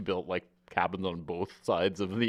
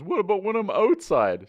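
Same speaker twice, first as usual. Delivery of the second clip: high, loud dopey question; hammed-up high dumb-guy voice; dim Joey; 12 semitones higher, 6 dB louder than usual. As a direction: play a clueless guy who misses the point. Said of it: "He goes".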